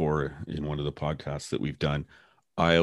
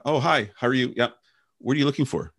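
higher-pitched, welcoming hello; friendly greeting; 8 semitones higher than usual. Acted. Colleague greeting a lost newcomer, friendly and helpful.

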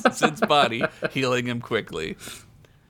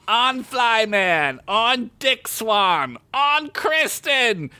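yelling; 10 semitones higher, much slower than usual. Acted. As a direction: drive them on with a yell. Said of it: "Chickpea yelled".

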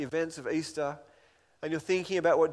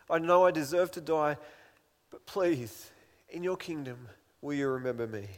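humble plea. Retold or imitated. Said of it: "he cries out in, in humility".

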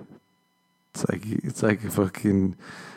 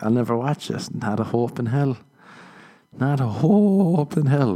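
mock defiant; 4 semitones higher than usual. Refusing to watch documentary.

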